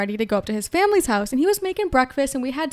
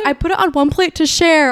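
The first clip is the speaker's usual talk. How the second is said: louder, giggling excuse; laughing quote of boyfriend; 6 semitones higher, 7 dB louder than usual. Retold or imitated. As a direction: mimic his excuse through laughter.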